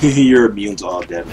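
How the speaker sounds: laughing. Real, not acted. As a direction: laugh it out in disbelief. Repeats with laugh.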